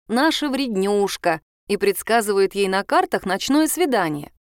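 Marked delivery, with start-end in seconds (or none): 0.1-1.4 affectionate. Retold or imitated. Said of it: "называют её ласково".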